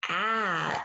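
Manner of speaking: AH as a drawn-out short vowel, as in apple; short A sound. Shown as a demonstration. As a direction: hold AH as the short A. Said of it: "is the short A sound".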